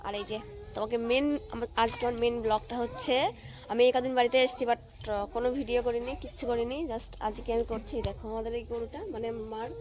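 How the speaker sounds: talking with a toothbrush in mouth; while brushing teeth. Real, not acted. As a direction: speak around the toothbrush. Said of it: "এই যে সকাল সকাল উঠে brush নিয়ে বেরিয়েছি".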